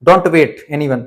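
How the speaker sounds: each word spelled out slowly; careful slow English for learners; slow teaching demo. Shown as a demonstration. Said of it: "मतलब किसी का wait मत करो".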